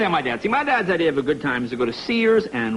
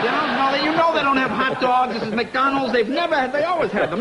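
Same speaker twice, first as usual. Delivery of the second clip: exasperated; 7 semitones higher than usual. Retold or imitated. Exasperated at dad over hot dogs.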